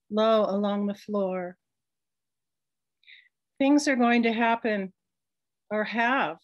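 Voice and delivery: measured recital, pausing between images; reading a poem at a public event; poetry reading. Acted. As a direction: hold each line, let the silence work. Poet reads her fire poem.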